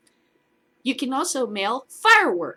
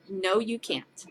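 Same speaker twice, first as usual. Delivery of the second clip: laughing at him; 7 dB louder than usual. Real, not acted. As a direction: laugh right in his face. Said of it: "I'm gonna laugh at you".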